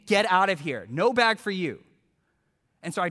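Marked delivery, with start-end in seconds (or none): 0.1-1.8 louder mock dismissal; retold indignant send-off, punched out; imitated angry refusal. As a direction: shut the customer down, acted. Angry seller refuses a bag.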